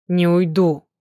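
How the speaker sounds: "Не уйду" spaced out syllable by syllable, firm. A narrator's reading. Demid refusing to leave, "Не уйду" syllable by syllable. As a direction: say "Не уйду" as separate syllables, each one set down hard. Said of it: "по слогам произнёс".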